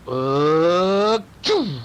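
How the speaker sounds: held "uh" rising into a burst; vocal sound effect of a big jump; leaping effort. A narrator's reading. Storyteller sounds out the cat's great jump, effortful. Cat leaps onto burglar.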